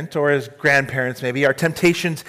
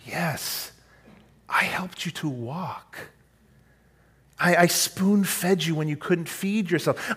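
tender; 4 semitones higher than usual. Acted. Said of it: "like God was saying".

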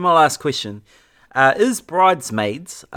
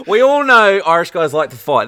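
laughing jab; 4 semitones higher, 3 dB louder than usual. Real, not acted. Joking jab while laughing.

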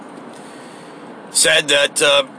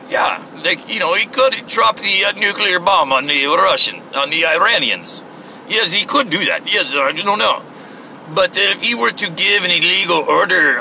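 lightly mocked Russian accent, pitched up; imitated Russian accent; 4 semitones higher than usual. Russian commentator on nuclear bombing, in an imitated Russian accent. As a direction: quote him in a put-on Russian accent.

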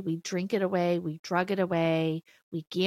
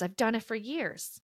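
quiet rueful repeat; 2 semitones higher, 6 dB quieter than usual. Real, not acted. Softer repeated admission.

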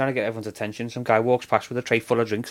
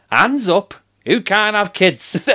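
1 loud announcement; 6 semitones higher, 4 dB louder, slower than usual. Retold or imitated. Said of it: "And then he goes".

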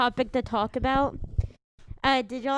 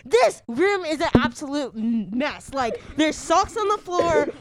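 mom voice. Acted. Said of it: "impression of my mom".

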